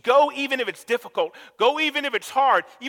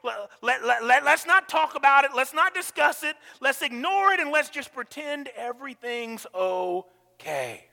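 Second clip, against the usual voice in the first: 1 peacekeeper voice; 3 semitones higher than usual. Retold or imitated. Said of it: "they're the ones who will say".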